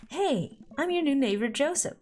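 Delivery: hammed-up neighborly hello; friendly neighbor. Neighbor Joseph introduces himself at the door, mildly chipper.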